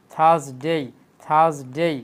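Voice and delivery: থার্সডে drawn out as "thaaz-dey"; correct Thursday. Shown as a demonstration. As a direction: lengthen both halves of থার্সডে, ending "dey". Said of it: "আমি আবার repeat করে দেখেন". (থার্সডে শুদ্ধ উচ্চারণে, "থাজডেই")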